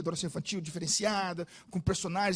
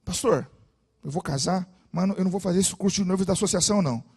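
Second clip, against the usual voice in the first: put-on indignant young man; 4 dB louder than usual.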